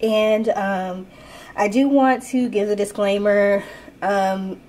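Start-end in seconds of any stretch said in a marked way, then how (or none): 4.0-4.6 stuffy nose from a sinus infection; blocked nose. Real, not acted. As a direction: talk through a blocked nose. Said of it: "I can't breathe out of my nose right now".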